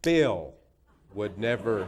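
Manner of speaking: mock indignant, booming and punchy; Hillary Clinton. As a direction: imitate a worked-up senator hammering out the climax. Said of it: "she got really worked up".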